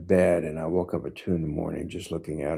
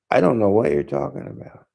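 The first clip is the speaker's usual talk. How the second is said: higher, louder, irritated reply; upset retort; 9 semitones higher, 6 dB louder than usual. Retold or imitated. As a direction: push back, annoyed and defensive. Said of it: "I got kinda upset about that".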